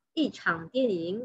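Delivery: "yi" with a falling fourth tone before "chang". Shown as a demonstration. Teacher repeating the film example, falling-tone "yi". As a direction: model "yi" falling, then "chang" dipping. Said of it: "i di sini sudah dibaca intonasi keempat".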